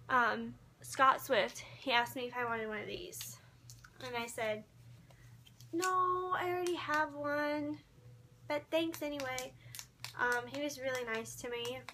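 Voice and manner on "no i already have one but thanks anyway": polite refusal. Retold or imitated. Retold polite refusal to Scott Swift.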